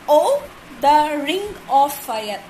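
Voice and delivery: "Oh, the ring of fire" slowly, beat by beat; syllable by syllable. Shown as a demonstration. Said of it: "third line consists of five syllable".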